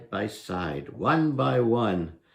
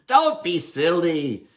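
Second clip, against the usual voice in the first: put-on higher, scoffing young man; mocking Herschel; 8 semitones higher, 5 dB louder than usual. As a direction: brush off the pranksters, amused. Herschel voiced, mocking goblin.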